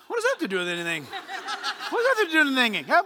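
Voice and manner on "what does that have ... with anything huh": amused disbelief, half laughing; incredulous. Shown as a demonstration. Preacher mocking a churchgoer's lame excuse, amused disbelief. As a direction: repeat it like you can't believe the excuse. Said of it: "repeated with rising incredulity".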